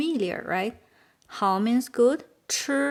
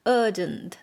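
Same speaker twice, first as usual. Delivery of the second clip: "urgent" in British accent, r dropped; British open vowel in "urgent", no r; 3 semitones lower than usual. Shown as a demonstration. Teacher correcting the vowel, "urgent" in British accent without r. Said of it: "Sounds like in British accent".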